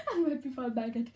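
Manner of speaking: laughing. Real, not acted. Laughing at herself.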